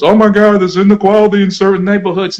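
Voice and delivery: mock shocked newscaster; mock news outrage. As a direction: play the suddenly shocked media. Mocking the news reaction.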